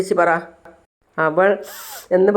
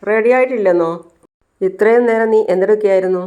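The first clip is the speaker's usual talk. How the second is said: mildly annoyed, higher-pitched demand; indignant questioning; 3 semitones higher than usual. Acted. Son finds his lunch isn't ready, mildly indignant. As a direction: challenge them with a touch of indignation.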